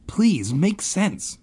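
high, slow desperate plea; pleading. A narrator's reading. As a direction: beg for it to make sense. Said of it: "Ben pleaded".

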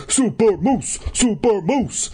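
high, gleeful cheer; yelling. A narrator's reading. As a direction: yell it as a victory cry. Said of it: "he yelled".

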